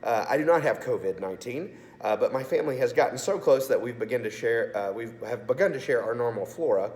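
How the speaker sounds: raspy, sore-throated voice from sinus infection; hoarse, like swallowing razor blades. Real, not acted. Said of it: "why I sound like I swallowed a bunch of razor blades".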